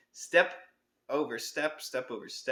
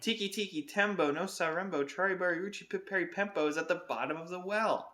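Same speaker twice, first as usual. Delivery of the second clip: shouting; 6 semitones higher than usual. Acted. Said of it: "he shouted".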